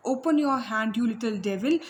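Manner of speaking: "Open your hand, you little devil" as a mild angry shout; a teacher's understated angry shout with cane in hand; angry order. Acted. Teacher orders the boy to hold out his hand, mildly angry. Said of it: "shouted angrily".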